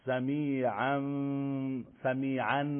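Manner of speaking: سمیعاً with a full n before بصیر; wrong way. Shown as a demonstration. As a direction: sound the tanwin n of سمیعاً clearly. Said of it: "نمیگیم". (سمیعاً با نون کامل)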